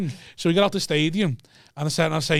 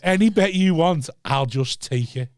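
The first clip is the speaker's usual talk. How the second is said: slow teasing offer; 2 semitones higher, slower than usual. Retold or imitated. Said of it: "I said".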